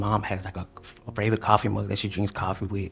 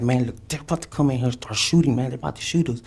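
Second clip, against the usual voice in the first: higher, louder urgent plea; urgent warning; 4 semitones higher, 4 dB louder than usual. Retold or imitated. Man retelling warning girlfriend police will shoot, urgent and raised. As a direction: warn her they're coming, urgently. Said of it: "I was like".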